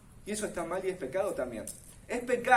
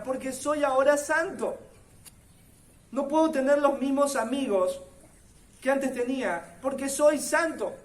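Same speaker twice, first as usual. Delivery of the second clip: determined resolve; 5 semitones higher, 4 dB louder than usual. Acted. Believer's resolve voiced in sermon.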